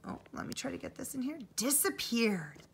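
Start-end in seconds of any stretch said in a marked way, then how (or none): 1.5-2.6 slow, softer disappeared; drawn-out reveal. Acted. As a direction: stretch the word out mysteriously. Dramatic end of quote.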